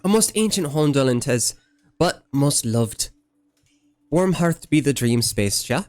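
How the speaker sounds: archaic folksy voice, lilting and fond; quaint old-timey villager. Acted. Streamer voicing a gentle villager to the player, old-fashioned lilt. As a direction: play a kindly old soul speaking in riddles. Same villager voice, gift scene.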